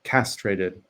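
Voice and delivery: measured poem with long pauses; poetry reading. Acted. Poet reads an L A poem to the online audience, measured poetry reading. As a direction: read in short, falling phrases, pausing after each.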